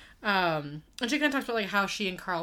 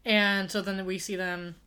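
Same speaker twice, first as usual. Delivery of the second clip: hiccupping mid-sentence; with hiccups. Real, not acted. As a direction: talk through a hiccup. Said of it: "um, hiccups".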